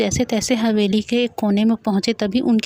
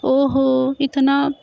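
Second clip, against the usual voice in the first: higher, hammed-up mock wail, slow on the grief words; fake crying; 3 semitones higher, slower than usual. Boy hams up fake sobbing over the ghosts' sad story. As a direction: overact the sorrow like a drama queen. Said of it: "रोने की acting करते हुए".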